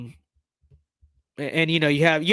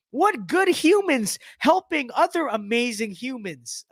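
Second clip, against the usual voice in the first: mock gush; 3 semitones higher than usual. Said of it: "Okay, good humans helping".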